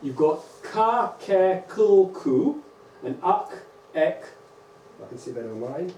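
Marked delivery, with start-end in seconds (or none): 0.0-3.5 ka, ke, kul, ku, uk, ek said slowly and distinctly; sounding out syllables. Shown as a demonstration. Teacher to class, slowly sounding out syllables. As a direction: spell out each cuneiform sound clearly. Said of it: "I'll show you how it works".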